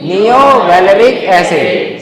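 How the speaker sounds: नियो वेलरिक एसिड drawn out slowly again; teacher drilling the acid name slowly; slow dictation. Shown as a demonstration. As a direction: repeat it slowly for the class. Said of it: "क्या बोलेंगे?".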